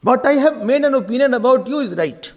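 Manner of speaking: firm, certain pronouncement; overconfident. Acted. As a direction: state it as beyond question. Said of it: "speaks with lot of confidence".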